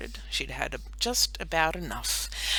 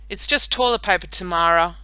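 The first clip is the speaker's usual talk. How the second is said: louder, higher friendly call; yell; 5 semitones higher, 13 dB louder than usual. A narrator's reading. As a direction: call it out cheerfully. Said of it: "Melanie yelled out".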